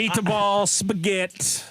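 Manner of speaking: hammed-up Italian accent; mock Italian accent. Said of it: "in an Italian accent".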